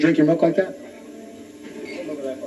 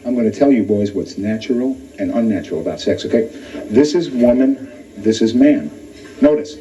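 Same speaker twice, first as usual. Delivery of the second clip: dad's lecture; 2 semitones lower than usual. Retold or imitated. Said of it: "he closed his lecture like this".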